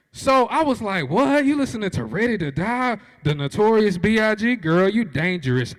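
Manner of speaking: thrilled she likes the rapper; excited. Retold or imitated. Excited reply to the girl.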